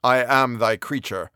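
a wretched giant speaking heavily; brooding creature. Acted. Voices the creature.

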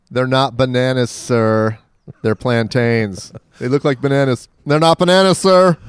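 put-on playful Cuban-accented insistence. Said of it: "I'll do a Cuban accent".

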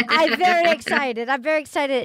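lightly imitated Borat accent; a light go at a mock-Kazakh Borat voice; Borat impression. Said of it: "he starts doing a Borat impression".

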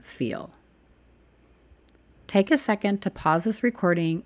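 measured meditation guide with long pauses; spacious, deliberate guided-imagery delivery; guided visualization. Acted. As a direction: lead listeners gently, one question at a time.

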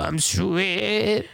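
a mock, drawn-out song-intro voice. Shown as a demonstration. Joking to friends, a mock song-intro voice. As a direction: sell the name like a jingle. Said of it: "your voice has to be like".

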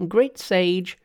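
high-pitched call for help, demonstrated; cried out. Acted. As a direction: call it out high as Monkey showing how. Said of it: "and cry".

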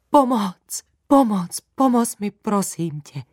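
a small spider begging desperately. A narrator's reading. Spider begging the girl to help save his mother. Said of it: "žadonil".

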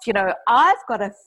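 worked-up self-reproach, emphatic; mock-exasperated self-blame; trashing oneself. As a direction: beat yourself up, half laughing at it. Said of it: "brooding and trashing myself".

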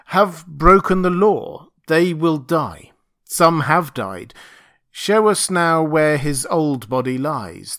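slow, loud pronouncement; commanding proclamation. Acted. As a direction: lay down the law to the crowd. Narrator proclaims to the beast folk.

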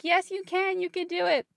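rally her like a cheer squad. Retold or imitated.

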